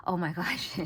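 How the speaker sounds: breathy whispered oh my gosh with a laugh. Real, not acted. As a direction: whisper it, half laughing at yourself. Overwhelmed by her own enthusiasm.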